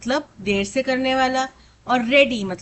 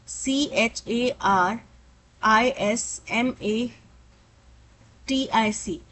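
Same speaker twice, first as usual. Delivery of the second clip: slow spelling; much slower than usual. Shown as a demonstration. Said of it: "spells charismatic letter by letter".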